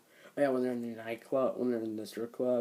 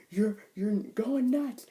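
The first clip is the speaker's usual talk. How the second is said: slow, much higher and louder yelling; retold yell; 11 semitones higher, 8 dB louder, slower than usual. Joe yelling back at his wife, slow and loud. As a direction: drag it out as a hammed-up yell. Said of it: "and then he's like".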